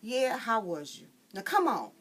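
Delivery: high, loud squabble; kids squabbling. Acted. Frida and her sister squabble over the water jar. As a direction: bicker like sisters.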